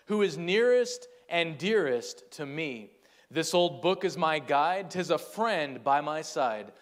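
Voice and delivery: measured rhyming recital, slowing at line ends; poem recitation. Acted. Preacher closing a sermon with a Bible poem, reciting. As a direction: recite it in an even rhythmic cadence.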